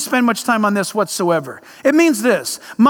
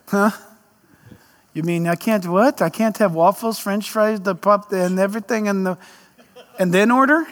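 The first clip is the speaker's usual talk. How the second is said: protesting eater; 5 semitones lower than usual. Acted. Food lover told to eat less objects, in a low mock protest. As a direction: play a mildly put-out food lover.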